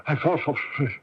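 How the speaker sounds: high, laughing, broken repetition; delirious laughing stammer. Acted. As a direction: stumble over the words with a laugh in your throat. Prisoner stammers in delirious dream.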